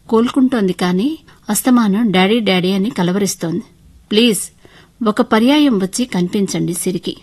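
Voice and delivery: understated pitiful appeal; pleading. Acted. Wife begging husband to visit their daughter, pleadingly. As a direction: beg him gently but urgently. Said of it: "దీనంగా అడిగాను".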